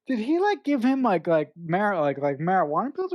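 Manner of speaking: puzzled, can't believe it; incredulous question. Retold or imitated. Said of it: "so I'm like".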